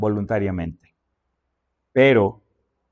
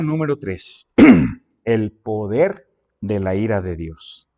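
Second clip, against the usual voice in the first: ordinary talk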